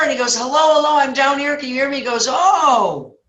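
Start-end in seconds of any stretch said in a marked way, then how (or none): 0.4-2.0 high-pitched acted hollering; urgent call upward. Trapped man answers a passerby, acted urgent call. 2.3-3.2 high, loud, stretched-out reaction; laid-back passerby. Acted. Passerby discovers the trapped man, acted long oh.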